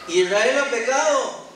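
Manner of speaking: "¿Israel ha pecado?" más agudo y fuerte, incrédulo; incredulous repeat. Acted. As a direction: repite la noticia sin poder creerla. Josué repite incrédulo. (Josué repite la palabra de Dios, incrédulo)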